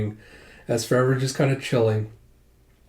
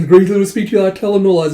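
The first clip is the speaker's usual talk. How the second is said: loud announcement; 7 semitones higher, 8 dB louder, much faster than usual. Shown as a demonstration. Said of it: "Oh, she's saying".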